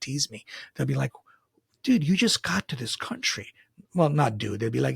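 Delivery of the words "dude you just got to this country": higher-pitched mock Indian schoolboy; bad Indian accent. Schoolboys teasing the new classmate, bad Indian accent. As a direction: tease in a badly faked Indian accent. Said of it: "That's a bad accent".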